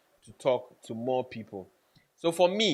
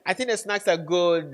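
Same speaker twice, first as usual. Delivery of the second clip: much higher, louder, surprised stranger's reply; a chirpy guest answering; other person's voice; 9 semitones higher, 7 dB louder, slower than usual. Retold or imitated. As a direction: play the other guest, pitched way up. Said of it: "Then the person says".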